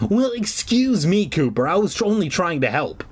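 a mild huffy snap, voice jumping high; snapping back. Acted. Friend offended by sarcasm, snapping back. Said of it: "The friend snapped at me".

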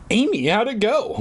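high, singsong mom call. Acted. Mom calling to Amy from the kitchen, calling out. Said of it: "Mom called from the kitchen".

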